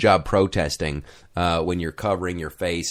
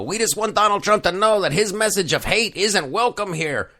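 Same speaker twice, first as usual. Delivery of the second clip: put-on Latino accent; 11 semitones higher than usual. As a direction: do a bad Latino accent impression. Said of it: "a horrible, Latino accent".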